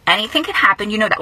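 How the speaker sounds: husband answers news in a flat monotone. Retold or imitated. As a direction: say it without any excitement. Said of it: "He was, like, monotone".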